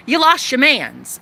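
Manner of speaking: blunt repeat of the taunt to the ex; flatter taunt. Real, not acted. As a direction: state it plainly, sliding down on lost. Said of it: "repeated taunt".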